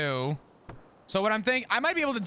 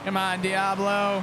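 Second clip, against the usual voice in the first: flat, even monotone delivery; 3 dB louder than usual. Acted. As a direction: keep it bland and monotone. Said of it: "I'm keeping it monotone".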